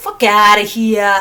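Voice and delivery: loud, put-on New Jersey accent. Speaker says the day's mantra in a New Jersey accent. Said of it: "add a New Jersey accent".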